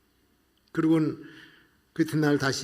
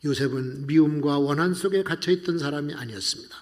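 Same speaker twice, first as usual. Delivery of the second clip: usual speaking voice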